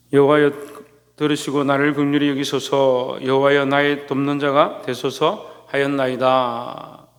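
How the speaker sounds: measured reading, drawn-out final syllables; formal Bible recitation in an even tone; scripture reading. Acted. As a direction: read the psalm aloud solemnly, stretching phrase endings. Reads scripture aloud.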